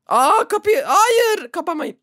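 high, loud cry of alarm; high-pitched urgent protest; alarmed shout. Real, not acted. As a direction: call out in a sudden panic. Door closing on player in game.

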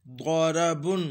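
द्वाराबुन with a heavy, rounded emphatic first consonant; correct heavy ḍād. Shown as a demonstration. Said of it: "इसको दाराबुन नहीं पढ़ेंगे".

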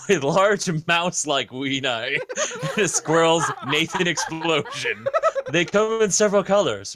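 reading through giggles; laughing while reading. Real, not acted. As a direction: fight back the giggles. Reading silly mad lib.

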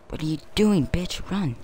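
high, frantic yelling; panicked yell. Real, not acted. Panicked at teammate.

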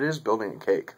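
talking around pipe stem; pipe in mouth. Real, not acted. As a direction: lips clenched on stem. Seen 4: pipe stem held between lips while talking, bowl visible.

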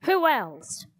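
exasperated outburst at restrained volume; shouted. A narrator's reading. Theater owner snapping at the children, mildly shouted. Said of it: "shouted Mister Dewey".

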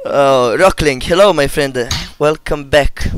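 loud cheery streamer welcome; loud greeting. Real, not acted. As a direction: greet the viewer loudly.

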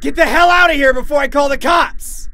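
loud, high-pitched panicked shout; full-force threatening yell. Acted. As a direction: yell at full volume to scare someone off. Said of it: "I instinctively yelled".

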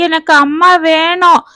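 lightly voiced crying child; a mild sob for her mother; sobbing little girl. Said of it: "விம்மிக் கொண்டே".

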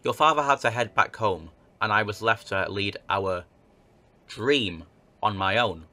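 measured letter read-aloud; narrating an old newspaper tale; story narration. Acted. Reads game letter aloud.

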